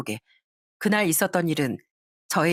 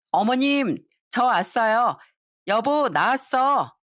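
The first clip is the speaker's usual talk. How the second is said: higher, bright sing-song arrival, slow on the last words; cheerful greeting; 5 semitones higher, slower than usual. Acted. Wife cheerfully greeting mother-in-law and husband. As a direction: announce yourself all smiles.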